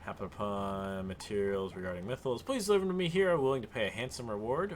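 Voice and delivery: put-on Southern accent. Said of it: "solidified ourselves into Southern".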